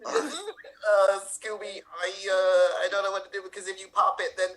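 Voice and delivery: lightly voiced scared Shaggy. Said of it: "as if it is Scooby-Doo".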